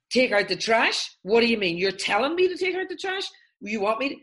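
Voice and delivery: loud, high, outraged disbelief; fly off the handle at a harmless request; indignant overreaction. Acted. Triggered overreaction to a simple request.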